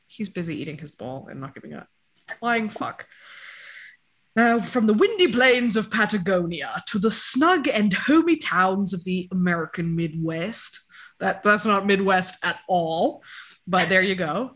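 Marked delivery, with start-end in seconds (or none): 4.3-10.8 mock British narrator, hammed-up; failed British documentary voice; bad British accent. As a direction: put on a shaky British read. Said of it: "Remember when I studied all of these accents and cannot do any of them".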